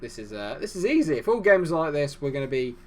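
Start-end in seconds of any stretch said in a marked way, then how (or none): 0.6-2.2 excited. Real, not acted. Cheering big winning lead.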